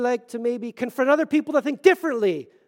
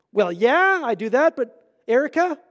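mock defensive reply; 5 semitones higher, 9 dB louder than usual. Imitating arguing with wife Erica.

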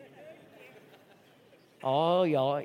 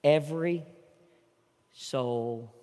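much softer and lower; hushed sermon close; 9 semitones lower, 10 dB quieter than usual. Acted. Pastor closing to First Baptist, hushed. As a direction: bring it down to a whisper of sincerity.

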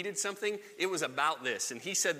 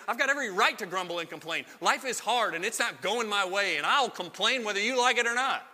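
quick, rising to a louder indignant retort; huffy self-justifying rant; defiant grumble; 5 semitones higher, 4 dB louder than usual. Acted. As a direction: insist you're entitled to complain.

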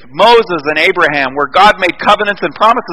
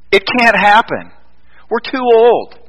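disbelieving protest; 6 semitones higher, slower than usual. Acted. Voices Zechariah's doubt to the angel.

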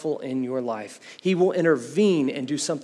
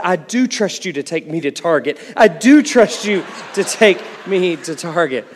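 mock crying child; 7 dB louder than usual. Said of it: "crying her eyes out".

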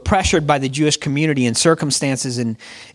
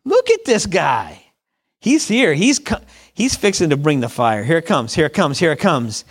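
amazed onlooker. Retold or imitated. Crowd watching the dead raised, astonished. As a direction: gasp it out in awe. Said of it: "they're like".

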